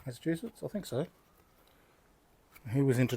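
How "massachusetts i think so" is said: much softer, higher self-check; unsure aside. Real, not acted. Speaker doubting his memory of the place, quiet aside. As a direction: drop the volume, as if checking with yourself. Checks own recall, to himself.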